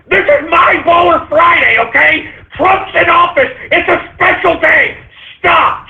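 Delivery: hammed-up frustrated begging; exasperated rant. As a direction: beg the trolls to stop, fed up. Ranting, pleading to trolls.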